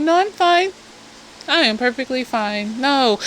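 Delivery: controlled, composed denial starting high and settling; calm insistence. Acted. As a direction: calmly act as if unbothered. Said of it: "my voice is calm".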